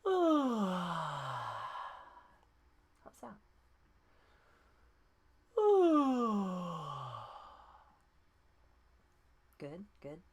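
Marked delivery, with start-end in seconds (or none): 0.2-2.2 long falling yawn sound; voiced yawn. Shown as a demonstration. Coach demonstrating the yawn warm-up. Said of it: "I'll go again". 5.6-7.5 long falling yawn sound; voiced yawn. Shown as a demonstration. Coach demonstrating the yawn warm-up. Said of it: "I'll go again".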